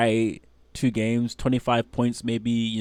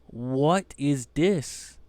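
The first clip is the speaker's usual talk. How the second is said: stunned disbelief; 3 semitones higher, much slower than usual. Real, not acted. Stunned at the stats graphic.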